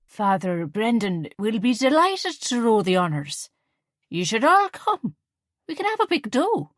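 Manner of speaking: put-on merry drunk, pushing her plan; tipsy slurring. A narrator's reading. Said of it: "her words slurring slightly".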